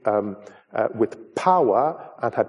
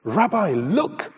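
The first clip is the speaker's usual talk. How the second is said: raised, amazed cry of an astonished disciple; surprised; 6 semitones higher than usual. Acted. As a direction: call out in wonder, pitched up. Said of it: "he is quite surprised".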